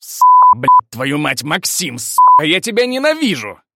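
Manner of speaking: very high, loud furious screaming; furious yell. Acted. Персонаж в ярости орёт проклятия на Максима. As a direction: scream curses in a rage. Character raging, cursing at Maksim.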